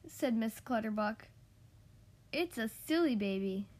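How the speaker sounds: measured storytime delivery with animated dialogue; children's story reading. A narrator's reading. Podcast host reads a requested picture book to kids, storytime reading. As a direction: read a picture book to little listeners, expressively.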